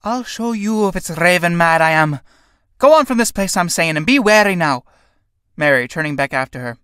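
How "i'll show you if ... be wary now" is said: angry push-off. Acted. Sarah pushing Mary away.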